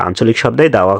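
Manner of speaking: ordinary talk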